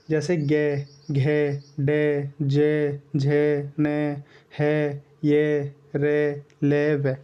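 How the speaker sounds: गे, घे, डे, जे, झे, ने, है, ये, रे, ले, वे drawn out slowly with the throat buzzing; voiced consonants demo. Shown as a demonstration. Teacher shows students voiced consonants slowly. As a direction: stretch each voiced sound, throat humming. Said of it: "बिल्कुल देखिए बोल के".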